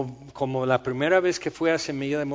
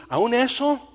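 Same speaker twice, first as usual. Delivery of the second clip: astonished question; 10 semitones higher, 3 dB louder, slower than usual. Pretend. New believer asking about one sin, stunned and disbelieving. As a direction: pitch jumps high in stunned disbelief.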